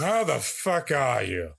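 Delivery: slow mock-Pacino greeting. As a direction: stretch it out, savoring it. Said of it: "Al Pacino".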